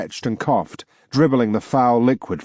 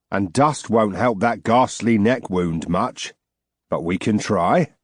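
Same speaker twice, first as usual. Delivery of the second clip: sly gentleman. Acted. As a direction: savour each word like a connoisseur. Short gargoyle man speaks.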